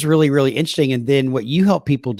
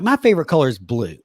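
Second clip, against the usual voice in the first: a hint of Southern twang slipping out; light Southern accent on the words; faster than usual. Real, not acted. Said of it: "heard my Southern accent come out there".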